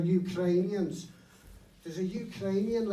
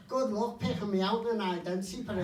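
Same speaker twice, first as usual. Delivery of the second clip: mocking dealer; 3 semitones higher, 13 dB louder than usual. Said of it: "And he said".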